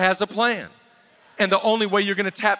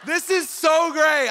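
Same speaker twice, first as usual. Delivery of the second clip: slow, higher, gushing delight; excited wife at mile seven; 4 semitones higher, slower than usual. Retold or imitated. Preacher imitating his wife's early marathon joy, slow and high. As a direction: gush like it's the best day ever. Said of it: "she's like".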